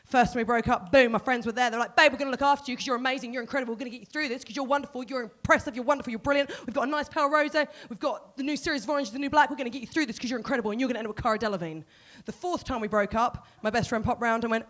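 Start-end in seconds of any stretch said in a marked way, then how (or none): 1.9-11.8 imitated gushing support. Friends gushing support after breakup.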